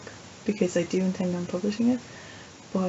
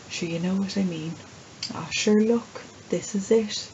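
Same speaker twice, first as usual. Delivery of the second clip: put-on Irish accent; 3 dB louder than usual. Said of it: "conversation is something we Irish are very good at".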